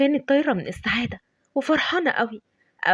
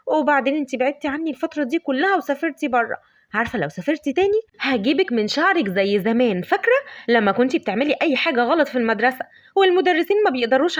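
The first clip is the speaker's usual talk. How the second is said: happy reunion; 3 semitones higher than usual. Acted. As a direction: gush over a long-lost friend. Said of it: "قالت بسعادة". (فرحة لقاء صاحبتها بصوت أعلى)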